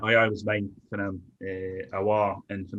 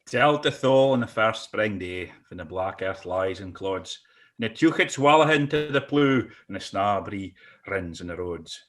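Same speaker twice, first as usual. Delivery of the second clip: reciting a Scots poem; dramatic poetry reading; poem recital. Acted.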